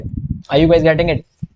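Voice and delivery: very slow, stretched question; drawn-out check-in. Real, not acted. Teacher asking students if they follow, very slow. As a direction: draw out each word to the class.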